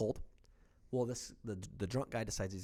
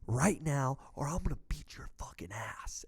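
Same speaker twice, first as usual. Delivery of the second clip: retold threat; slower than usual. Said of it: "and I say".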